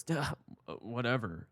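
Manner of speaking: mock a scoff, then shrug it off; dismissive scoff. Teller imitating Brian brushing him off, dismissive scoff. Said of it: "gives a strange scoff and he goes".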